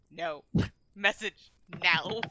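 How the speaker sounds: low, slow and insistent; firm demand. Acted. Gilly pulls the frightened guard closer, low insistent demand. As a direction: refuse in a low voice, demanding with measured words.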